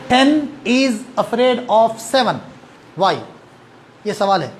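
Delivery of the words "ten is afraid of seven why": slow riddle. Shown as a demonstration. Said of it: "asks a riddle slowly".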